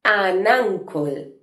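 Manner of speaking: "an uncle" despacio, con la u de "uncle" como una a; pronunciación lenta. Shown as a demonstration. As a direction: marca la n unida a "uncle", con calma. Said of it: "Sonido vocálico A". (di "an uncle" lentamente, sonando "an ankol")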